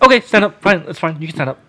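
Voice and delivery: high and hurried, easing off as it goes; mock-flustered, giving in to someone; retold flustered reply. Retold flustered permission to Robin.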